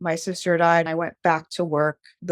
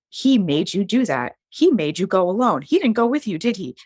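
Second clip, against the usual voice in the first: a touch of furious mom; lightly voiced protective mother, sharp; mom's anger; 3 semitones higher, 3 dB louder than usual. Mom hearing about the abortion, lightly voiced protective anger. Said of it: "she lost her mind".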